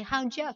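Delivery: "how do you" as how-dja; reduced to ya. Shown as a demonstration. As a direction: let "you" weaken to ya. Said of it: "comme si on avait un Y A". (« how do you » réduit à how-dja)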